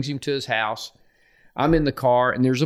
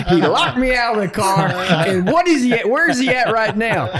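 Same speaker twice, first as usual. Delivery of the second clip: loud, high-pitched retold rant; worked-up imitation, pitched way up; exasperated outburst; 10 semitones higher, 6 dB louder than usual. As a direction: act out an irate coach on the phone. Retelling heated phone exchange with coach.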